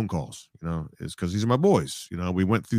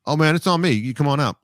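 higher, louder thrilled fan voice; star-struck clerk; 5 semitones higher, 5 dB louder than usual. Retold or imitated. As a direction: gush like a starstruck golf clerk. Star-struck clerk offers free golf.

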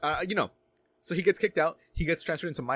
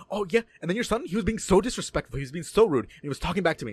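a hint of an indignant school official, pitch lifted at the start; mildly raised, scolding imitation; lightly voiced complaining administrator; 3 semitones higher than usual. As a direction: imitate her griping to a parent. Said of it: "she is, like, being all like".

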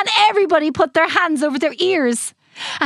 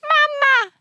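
put-on baby voice; 13 semitones higher than usual. A narrator's reading. Baby dinosaur calling.

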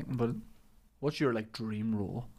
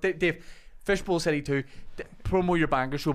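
hard man voice; 4 semitones higher, 4 dB louder than usual. Shown as a demonstration. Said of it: "deliver it like a hard".

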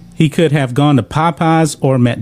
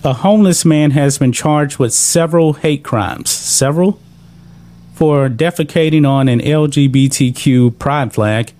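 stifled giggles. Real, not acted. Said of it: "I'm trying not to laugh at this".

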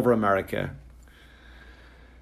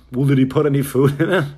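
radio voice; 3 semitones higher, 7 dB louder, faster than usual. Retold or imitated. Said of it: "the guy in the other end goes".

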